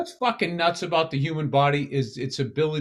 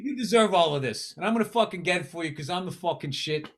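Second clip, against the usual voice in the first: mocking swagger. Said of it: "you're still talking shit".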